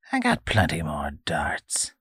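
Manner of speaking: unvoiced, threatening whisper; menacing whisper. Old man warning the boy, whispered threat. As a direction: breathe the threat.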